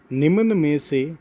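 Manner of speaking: slow, spaced-out question reading; writing-along dictation. Real, not acted. Teacher writing out a question for students, slow dictation. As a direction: say each piece as you write it. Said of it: "उदाहरण लिख रहा हूँ".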